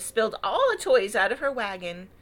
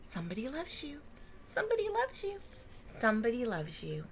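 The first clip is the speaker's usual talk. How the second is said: whispering; 8 dB quieter, faster than usual. A narrator's reading. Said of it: "seemed to whisper".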